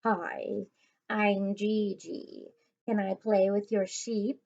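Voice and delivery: scratchy voice. Acted. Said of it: "with a super scratchy voice".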